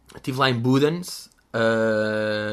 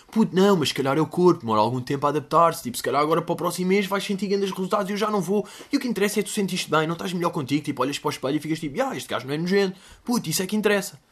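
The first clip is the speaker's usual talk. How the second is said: mock motivating friend; 5 semitones higher, faster than usual. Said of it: "Tentar motivar".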